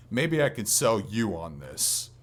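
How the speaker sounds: ordinary talk, nothing marked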